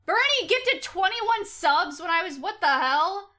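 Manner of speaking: loud, high burst of surprise; shocked delight. Real, not acted. Streamer interrupted by a viewer's big sub gift, astonished shout. Reacting to large gift of subs.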